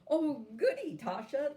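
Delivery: high, loud, gleeful chirp; bright little cheer of delight; chirpy. A narrator's reading. Doll chirping happily at the goat cart ride. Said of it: "the doll chirped".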